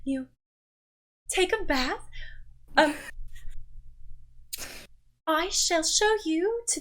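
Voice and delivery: a lady chiding her daughter playfully; theatrical mother. Acted. The mother speaks to guests.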